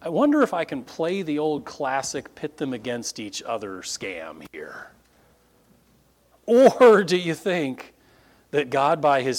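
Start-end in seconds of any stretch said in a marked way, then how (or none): 0.0-4.9 scheming Paul. Retold or imitated. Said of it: "standing there before the Sanhedrin going".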